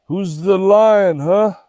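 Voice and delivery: slow, teasing challenge; playful challenge. Real, not acted. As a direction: draw it out like taunting a puppy.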